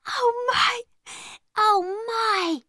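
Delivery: put-on high, wondering girl's voice; an awed young servant girl; lightly voiced young maid. Becky, the maid, asking Zara in wonder.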